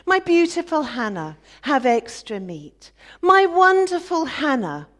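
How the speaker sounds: loud, high sneering imitation of doting praise; mocking the husband. Rival wife mocking how husband praises Hannah, loud sneer. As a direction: ham up his adoration to ridicule it. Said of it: "Listen to him".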